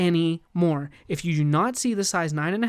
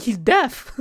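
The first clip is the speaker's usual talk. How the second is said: surprised realization; 7 semitones higher, 7 dB louder than usual. Retold or imitated. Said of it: "He's like".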